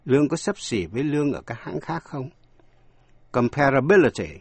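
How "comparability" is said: Comparability with the beat on "bil"; stress on B syllable. Shown as a demonstration. Teacher shows learners Comparability stressed on the B syllable. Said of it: "nhấn vào vần B".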